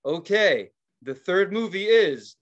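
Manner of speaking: imitated movie announcer. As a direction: announce it slowly, building up to the title. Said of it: "And then they said".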